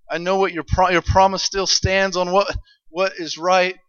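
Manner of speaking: a soft whispered-style plea to God; praying under breath. Retold or imitated. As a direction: murmur it like a secret prayer. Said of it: "are talking under their breath".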